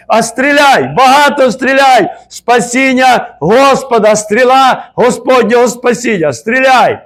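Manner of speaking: high, loud prophetic shouting; fervent prophetic cry. Retold or imitated. Prophetic word told to the brother, high loud cry. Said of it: "пророче слово я чув".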